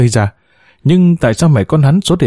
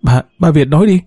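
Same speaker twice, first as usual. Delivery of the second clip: higher, strained cry to him; shouting out; 4 semitones higher than usual. A narrator's reading. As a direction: call out desperately. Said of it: "hét lên".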